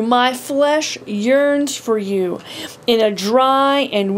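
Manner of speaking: slow, prayerful reading of the psalm, drawn out; earnest psalm reading. Acted. Preacher reading David's cry to God, slow and earnest. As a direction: lift the words up like a prayer.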